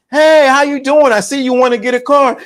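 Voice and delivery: schmooze the buyer like a car manager; salesy manager greeting. Acted. Manager greets the eager customer with a sales pitch.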